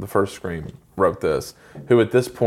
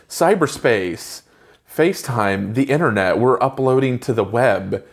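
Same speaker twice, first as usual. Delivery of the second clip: mocking the movie teens. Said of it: "nobody talks like this".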